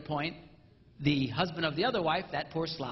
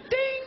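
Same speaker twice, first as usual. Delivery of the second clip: a high bright bell ding; high ding of a scoring bell; 5 dB louder than usual. Pretend. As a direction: ring it out like a point scored. Scoring bell sound effect.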